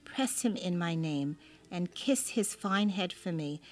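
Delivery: reverent prayer reading. Acted. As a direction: read it like a devout prayer. Reads a prayer aloud.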